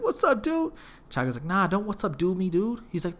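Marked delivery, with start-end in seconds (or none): 0.0-0.7 very high-pitched hello; mock friendly greeting. Guy offers friend a little handshake, mock-friendly high voice. 1.4-2.8 higher-pitched snub; retold irritated rebuff. Friend refuses the guy's handshake, irritated.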